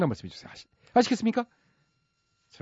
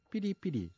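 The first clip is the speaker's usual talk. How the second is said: spoken beep; 10 dB quieter than usual. Shown as a demonstration. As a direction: mouth imitation of a censor bleep. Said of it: "제가 살짝 삐리삐리로 이제 바꿔서 읽어드렸는데".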